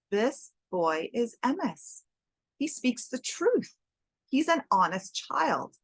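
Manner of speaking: slow, gentle voice of a kind rabbi; tender praise. Acted. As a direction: speak slowly, lovingly vouching for the child. Rebbe tenderly praises the boy.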